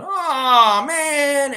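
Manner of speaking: loud, high drawn-out collective groan. Retold or imitated. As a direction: groan it out in exaggerated dismay. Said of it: "everybody let out this groan".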